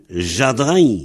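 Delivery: jadrin with no R after the A; jadrin: zha-drã, R moved; dialect variant. Shown as a demonstration. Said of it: "il y en a qui disent".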